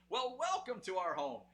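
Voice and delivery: mock father-in-law greeting the prankster son-in-law; imitating father-in-law. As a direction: lightly voice a welcoming father-in-law. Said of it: "you know, like this".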